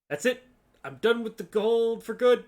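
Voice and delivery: exasperated outburst; fed up. Acted. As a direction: declare it, fed up. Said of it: "you say".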